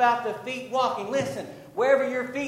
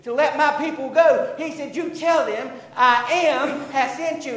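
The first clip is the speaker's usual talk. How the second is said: forceful, raised preacher's delivery; fervent preaching; 3 semitones higher, 6 dB louder than usual. Real, not acted. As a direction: preach it hard, punching and stretching key words.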